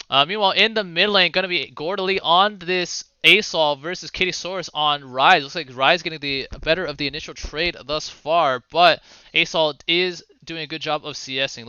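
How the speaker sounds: measured esports commentary; live play-by-play. Acted. Caster to viewers on the mid lane trade, measured play-by-play. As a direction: talk viewers through the lane matchup.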